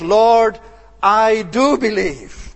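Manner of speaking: the father crying out, understated and slow; tearful cry. Acted. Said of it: "and said with tears".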